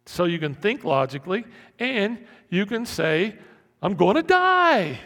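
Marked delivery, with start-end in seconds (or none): 3.8-5.0 high, loud mock terror; panicked wail. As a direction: cry out as if doomed. Acts out amygdala's panic.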